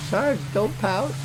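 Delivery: high, slow whiny plea; mimicking a teammate's whiny plea; mock pleading. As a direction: beg him like a child. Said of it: "You're like".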